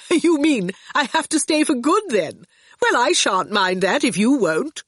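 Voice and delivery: high, light laugh into the words; amused, laughing. A narrator's reading. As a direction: say it through a touch of acted laughter. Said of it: "Torquil laughed".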